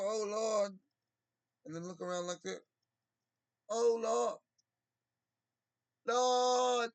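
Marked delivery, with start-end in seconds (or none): 0.0-0.8 mock churchgoer. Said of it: "go to church and go". 3.7-4.4 high, loud, hammed-up "Oh, Lord"; mock a showy worshipper praising God; hammed-up churchgoer. A churchgoer praising God for show, hammed up. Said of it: "go to church and go". 6.1-6.9 high, loud, showy cry of "Lord!"; hammed-up cry. A churchgoer crying out to God for show, hammed up.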